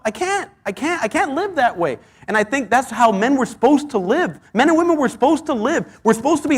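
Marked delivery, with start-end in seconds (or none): 0.0-2.0 anguished plea. Real, not acted. Anguished sermon cry.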